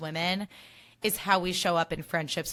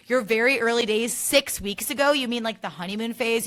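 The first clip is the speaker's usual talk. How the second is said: incredulous retort; 4 semitones higher, 5 dB louder than usual. Retold or imitated. Everyone's incredulous retort, retold.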